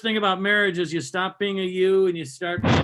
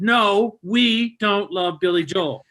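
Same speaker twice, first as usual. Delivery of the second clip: snapping rant; 3 semitones higher than usual. Retold or imitated. Husband snapping at wife in the restaurant, mock angry rant. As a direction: snap back at her, hammed-up. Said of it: "I snapped".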